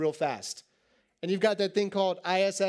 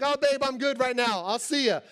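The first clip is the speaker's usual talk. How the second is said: breezy oblivious husband; 4 semitones higher than usual. Pretend. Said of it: "I don't wanna go like".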